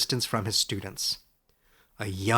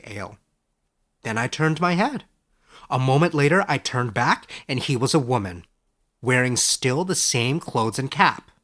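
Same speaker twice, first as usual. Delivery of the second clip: Edric's voice; 4 dB louder than usual. Acted. Edric describes the trick.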